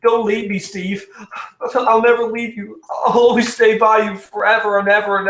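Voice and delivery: pleading in a shrill, sappy mock falsetto; mocking Bernie. Reviewer mocks the film's clingy girlfriend, high whiny parody. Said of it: "you have Bernie".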